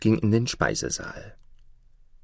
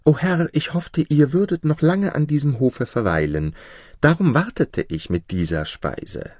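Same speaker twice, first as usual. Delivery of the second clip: anxious dwarf, pitched up; trembling; 6 semitones higher than usual. A narrator's reading. Dwarf excuses himself to his master, trembling. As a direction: answer the lord nervously in a higher voice. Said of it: "antwortete mit zittriger Stimme".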